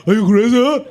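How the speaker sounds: impression of Ronak. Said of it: "This is Ronak's impression".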